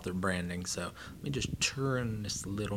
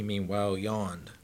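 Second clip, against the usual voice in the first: ordinary delivery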